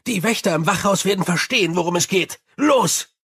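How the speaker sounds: urgent commands. Acted. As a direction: commander in a hurry. Vimes gives urgent orders.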